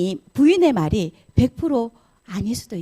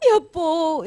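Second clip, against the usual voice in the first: gasp, then a higher mock sob; fake tearful acting; 7 semitones higher, much slower than usual. Wife fakes tears as husband arrives, play-acted sobbing. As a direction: put on tearless crying, drawing out the word. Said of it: "눈물도 안 나는데 막 연기를 해".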